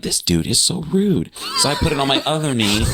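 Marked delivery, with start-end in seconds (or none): 0.0-1.3 high-pitched mock grumble; mildly annoyed. Griping about the popcorn thief, annoyed. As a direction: complain in a raised, put-out pitch. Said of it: "I'm a little annoyed at him".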